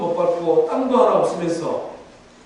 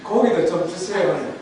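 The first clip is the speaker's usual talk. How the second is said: soft, humble request in prayer; modest, softened plea; polite prayer; 5 dB quieter than usual. Acted. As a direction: ask God gently and gratefully. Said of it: "하나님 앞에 기도하면 되잖아요".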